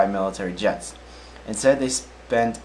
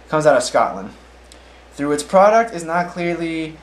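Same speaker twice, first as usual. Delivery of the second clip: another slightly louder try at a Scottish accent, still mostly the usual voice; bad Scottish accent; 6 semitones higher, 5 dB louder than usual. Shown as a demonstration. Newsreader retrying the Scotland headline, mock Scottish accent. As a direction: give Scotland a hammed-up Scottish twist. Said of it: "I'm saying it with the worst accent in the world".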